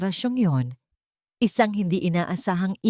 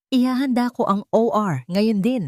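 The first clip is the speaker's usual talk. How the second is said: loud, urgent call, a touch higher; shouted order; 5 semitones higher, 3 dB louder than usual. Acted. Doctor ordering the operating room readied, shouting urgently. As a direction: bark the order to prep surgery. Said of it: "sigaw ni Doctor Vincent".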